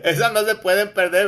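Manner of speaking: chuckling while he speaks; laughing. Real, not acted. Laughing as he tells listeners the clip is a must-hear.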